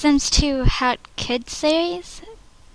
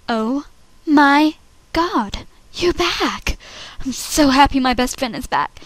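amazed. Acted. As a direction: stretch out the astonishment, then settle into gladness. Audition take, slower disbelieving version.

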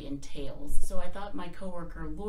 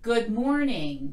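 loud, slow, raised-pitch greeting; loud voice practice; 5 semitones higher, 7 dB louder, slower than usual. Shown as a demonstration. Demonstrating loudness in talking for patients, loud practice voice. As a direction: project it loudly and unhurriedly. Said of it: "practice loudness in talking like this".

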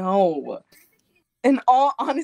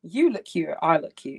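American accent; 5 semitones lower than usual. Shown as a demonstration. Showing a stranger on request, in an American accent. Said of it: "like, a American accent".

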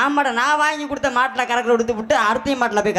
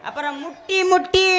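high vendor cry; singsong street hawker; 7 semitones higher than usual. Acted. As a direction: sing out the item. Hawker calls.

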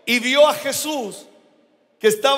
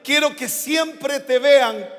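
divine voice. Acted. God's words to the preacher. (cadencia lenta casi cantada)

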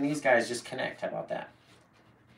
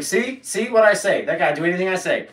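imitating young fan; 5 semitones higher, 4 dB louder than usual. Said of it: "It's like".

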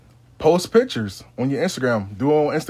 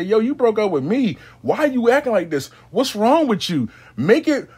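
turning the tables; 7 semitones higher, 4 dB louder than usual. Retold or imitated. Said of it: "Turn the tables on him".

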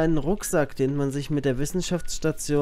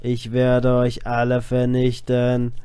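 slow menacing robot threat; 3 dB louder, slower than usual. Pretend. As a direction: drone it like a villain machine. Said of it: "Ich bin ein Roboter".

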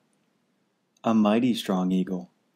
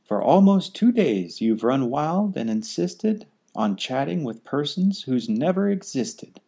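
scolding kangaroo. Acted.

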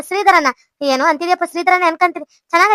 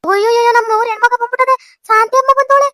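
raised, exclaiming greeting; delighted village-woman fuss, pitched up; excited welcome; 6 semitones higher than usual. Acted. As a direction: hail a long-missed visitor in a higher voice. Old woman exclaims at visitor's arrival.

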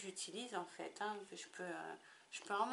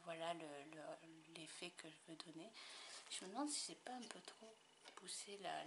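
whispered aside, softer; thinking aloud in a whisper; a private whisper about the lighting; whispering to herself; 4 semitones lower, 10 dB quieter than usual. Real, not acted.

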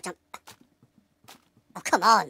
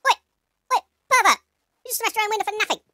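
jeering shout; 7 semitones higher than usual. Real, not acted. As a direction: yell it after him across the garden. Shouting at the NPC.

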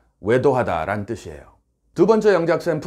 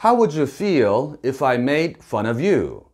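very slow, carefully linked English; slow model reading; much slower than usual. Shown as a demonstration. Teacher slowing the phrase to show linking. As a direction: read it slowly for the learners. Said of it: "끊어읽기와 발음을 좀 따져보도록".

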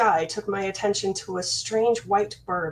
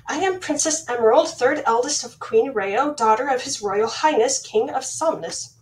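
grand royal introduction; 3 semitones higher than usual. Acted. Princess announces her title.

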